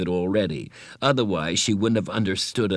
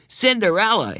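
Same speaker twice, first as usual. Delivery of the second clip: laughing repeat; 13 semitones higher, 5 dB louder than usual. A narrator's reading. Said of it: "he repeated and laughed again".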